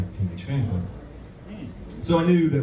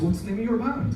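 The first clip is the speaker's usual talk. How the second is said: Scottish gentleman; 11 semitones higher than usual. Retold or imitated. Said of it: "this nice Scottish gentleman".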